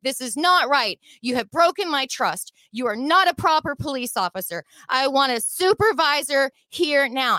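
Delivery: insistent demands in an imitated scream, not at full volume; retold screaming demand. Driver demands a supervisor from the cop, retold screaming. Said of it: "I was screaming".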